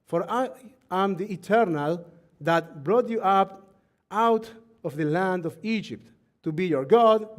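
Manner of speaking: loud, deliberate reading with long pauses; slow scripture reading. Real, not acted. Rabbi reads Leviticus to the congregation, slowly and emphatically. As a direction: read it out slowly, weighting the key words. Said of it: "I will read slowly".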